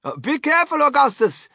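father shouting to his son; shouted warning. A narrator's reading. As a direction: call out a worried caution. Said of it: "shouted Mister Gloop".

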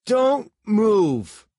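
loud high-pitched command; loud, tense order; threat. A narrator's reading. Gun to suspect's face.

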